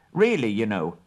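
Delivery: brisk hobbit businessman; business manner. Acted. Bilbo opening talks with the Elven King, brisk business manner. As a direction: talk shop like a merchant. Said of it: "in his best business manner".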